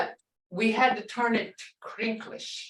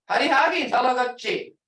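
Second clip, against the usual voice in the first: mean order; 3 semitones higher, 4 dB louder, faster than usual. Retold or imitated. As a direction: order the kid home early. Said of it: "That's like an order saying".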